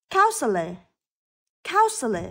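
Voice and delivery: Counselor starting on a hard k; careful model Counselor with a clear initial k; hard K sound. Shown as a demonstration. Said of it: "đó là âm K". (phát âm Counselor với âm k ở đầu)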